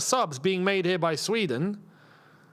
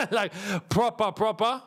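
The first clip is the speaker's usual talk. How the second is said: laughing; 4 semitones higher than usual. Real, not acted. Laughing about shop couscous.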